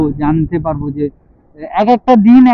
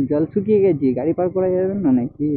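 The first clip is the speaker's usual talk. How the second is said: হেসে ফেলে বলা; মজা পেয়ে হাসি; হাসতে হাসতে; 6 dB quieter than usual. Real, not acted. Laughing at dry water. (জল শুকিয়ে যাওয়ায় হেসে বলা)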